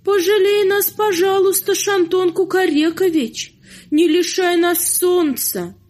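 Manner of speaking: high tearful pleading. Acted. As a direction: beg the rooster desperately. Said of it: "плачут".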